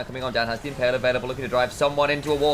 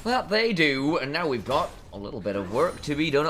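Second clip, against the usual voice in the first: light West Country burr on the commentary; a hint of West Country in the caster's voice; West Country accent. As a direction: slip into a mild West Country accent mid-cast. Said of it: "I've decided to go West Country on this one".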